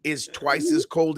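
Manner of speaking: laughing while teasing. Real, not acted. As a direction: talk through a chuckle.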